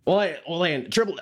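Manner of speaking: put-on briefly resumed high referee accent; Earl's accent. Asked to do the whole show like that, tries the accent. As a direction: slip into Earl's high-pitched accent, haltingly. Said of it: "do the rest of the show like that".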